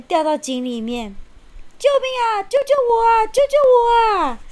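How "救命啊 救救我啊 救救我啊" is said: high, desperate cries for help; pleading for help. Acted. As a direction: scream for help in panic. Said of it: "大野狼哀求着".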